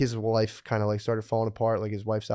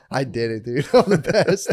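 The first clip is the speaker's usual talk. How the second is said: mock triumphant; 4 dB louder than usual. Fighter voiced eating cereal triumphantly.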